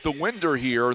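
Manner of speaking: southern accent slip. Real, not acted. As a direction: let the Southern accent turn "window" into "winder". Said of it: "my southern accent got the best of me there".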